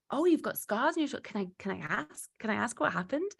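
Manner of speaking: acted friendly curiosity, lifting into the question; curious, tentative asking. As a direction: imitate someone gently asking out of interest. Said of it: "They were like".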